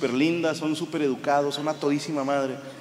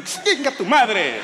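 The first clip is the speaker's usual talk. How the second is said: slow yelled curse through laughter; pained curse; 6 semitones higher, 6 dB louder, much slower than usual. Retold or imitated. Comic burned in the dressing room, yelling a curse. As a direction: curse out loud as the boiler burns.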